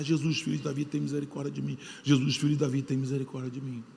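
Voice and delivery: a hushed, imitating plea; retold cry for mercy. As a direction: blind man crying out, told quietly. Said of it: "E começa a gritar, gritar, gritar".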